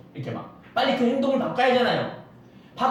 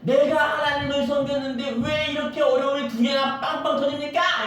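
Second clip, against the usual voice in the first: Solomon complaining; 6 semitones higher than usual. Acted. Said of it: "이렇게 말하는 거예요".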